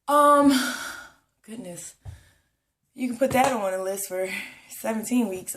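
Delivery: winded, pausing for air; out of breath. Real, not acted. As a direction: speak short of breath. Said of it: "I'm more, more out of breath now".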